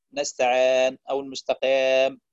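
long ee opened toward aa in نستعان and المستقام; distorted long ii. Shown as a demonstration. Teacher showing recitation mistakes, نستعان and المستقام with opened vowels. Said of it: "يقول نستعان".

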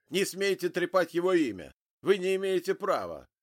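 loud, high furious outburst; angry shout. Acted. Grieving father yells at the agent, furious shout. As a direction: bark it at him in rage.

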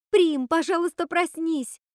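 high loud begging; мольба. Acted. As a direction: beg her sister to wake up. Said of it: "взмолилась она". (Готель громко и высоко умоляет сестру проснуться)

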